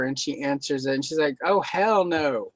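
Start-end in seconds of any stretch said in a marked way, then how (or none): 1.4-2.5 slow, drawn-out refusal in an imitated Black accent; mock Black accent, dragged out with attitude; imitated assumed Black accent. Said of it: "she had assumed a black accent".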